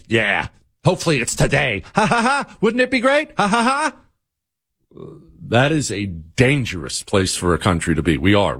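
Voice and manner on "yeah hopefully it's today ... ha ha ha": mock cackle. Mocking Democrats laughing about violence.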